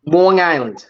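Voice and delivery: "Long Island" with the first word leaned on; firmly modelled "Long Island"; Long Island pronunciation. Shown as a demonstration. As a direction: coach the local way of saying "Long Island". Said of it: "There you go. You got it".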